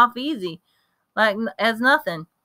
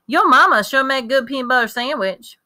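put-on eager country boy; 6 semitones higher, 4 dB louder than usual. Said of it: "jabbering a mile a minute".

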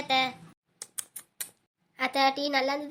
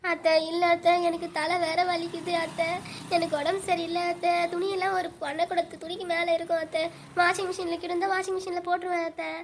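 mild whimpering plea, voice slightly raised; tearful pleading; 3 semitones higher than usual. Acted. Daughter-in-law begging off hand-washing, tearful pleading. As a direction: plead as if starting to cry. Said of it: "சரி, சரி, இப்போ அழுவாத".

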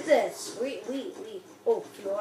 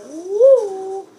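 excited whoop; 3 semitones higher, 7 dB louder than usual. Real, not acted. Reacting in the game.

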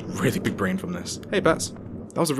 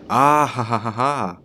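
triumphant laugh; 5 dB louder, slower than usual. Real, not acted. Triumph over puzzle.

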